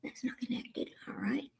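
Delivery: hissed under her breath at the mic; real exasperated whisper; frustrated whisper. Real, not acted. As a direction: whisper it to yourself, fed up. Frustrated tech trouble on live stream.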